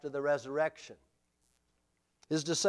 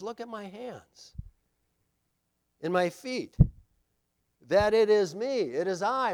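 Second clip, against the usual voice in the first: earnest Jesus; 5 semitones higher, 4 dB louder than usual. Acted. Jesus voiced showing wounds.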